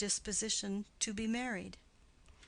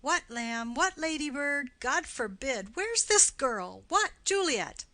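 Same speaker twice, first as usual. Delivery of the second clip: calling out; 5 semitones higher, 5 dB louder than usual. Acted. Nurse calling for Juliet.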